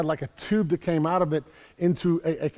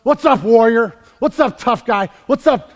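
louder, higher hammed-up tough-guy hello; mock hearty greeting; 4 semitones higher, 7 dB louder than usual. Angel walks up to fearful Gideon, mock hearty greeting. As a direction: hail him as if he were a hero. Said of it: "Jesus, walks up and goes".

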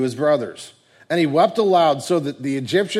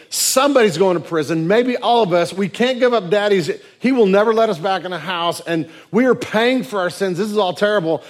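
loud, higher-pitched panicked brothers; terrified; 5 semitones higher, 6 dB louder than usual. Acted. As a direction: play mock dread, voice raised. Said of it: "they are terrified, thinking".

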